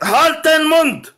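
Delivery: slow, high, drawn-out order; angry silencing shout. Real, not acted. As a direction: shout them down, stretching each word. Silencing an interrupting opponent.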